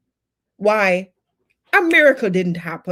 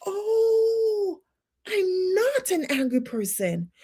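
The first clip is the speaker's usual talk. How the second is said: acted revelation; 5 semitones higher, slower than usual. Acted sudden self-discovery.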